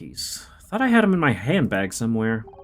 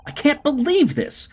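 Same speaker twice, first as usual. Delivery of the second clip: railing at being written off; upset Glory; 9 semitones higher than usual. Acted. Actress fired from her show, shouting in disbelief.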